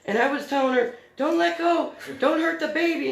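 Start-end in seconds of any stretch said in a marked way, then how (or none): 1.2-3.1 high, loud shouted orders; retold urgent yelling. Mom re-enacting orders to her dragged daughter, urgent yelling. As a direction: re-enact calling out frantic instructions.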